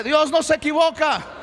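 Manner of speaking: strong, loud call to the congregation; full-voiced rallying cry; loud declaration. Shown as a demonstration. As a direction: proclaim it forcefully so everyone joins in. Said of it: "A ver, dígalo fuerte".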